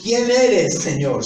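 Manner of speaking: alto y fuerte, exclamado con asombro; grito de Pablo. Retold or imitated. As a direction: clama como Pablo derribado. Pablo caído pregunta al Señor. (Pablo en el suelo pregunta al Señor, gritando)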